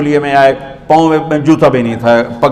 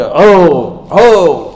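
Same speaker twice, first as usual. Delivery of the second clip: joyful cry; 3 semitones higher, much slower than usual. Shown as a demonstration. Preacher shows the saved soul's cry, joyful shout. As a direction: cheer hoo twice in triumph. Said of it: "وہ کتاب لے کر نہ کہ".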